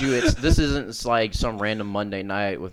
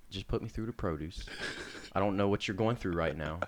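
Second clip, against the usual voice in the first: soothing; 8 dB quieter than usual. Retold or imitated. Prankster soothing the angry clerk.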